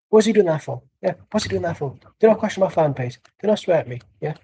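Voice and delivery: lightly imitated indignant fan; a hint of a huffy football-fan rant; Ty's mannerisms. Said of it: "Then the mannerisms of Ty is like".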